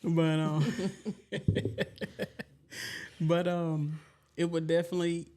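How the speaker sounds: talking around a grill in the mouth; slurred through a teeth grill; wearing teeth grill. Real, not acted. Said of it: "she really cannot talk with them grills in her mouth".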